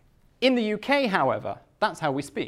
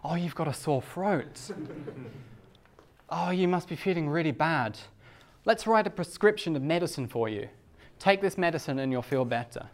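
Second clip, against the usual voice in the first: smiling friendly doctor. Retold or imitated. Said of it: "The doctor greets me with a smile".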